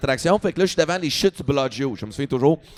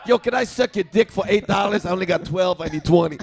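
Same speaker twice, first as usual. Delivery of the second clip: hustler impression; 3 semitones higher than usual. Comic redoes hustler's pitch laughing.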